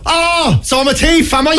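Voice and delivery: high, mock-indignant comeback; robustly defensive. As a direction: act wrongly accused, voice jumping up high. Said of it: "people that defend themselves really, like, robustly".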